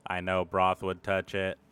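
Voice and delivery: low, quiet aside in character; lightly voiced Erdan. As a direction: confide it softly to a companion. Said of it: "and be like".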